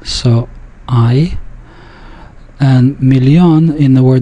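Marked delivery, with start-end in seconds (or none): 0.9-1.4 I as in fine, but shorter; short I diphthong. Shown as a demonstration. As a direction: say I like the vowel of fine, cut a little short. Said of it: "but a little bit shorter".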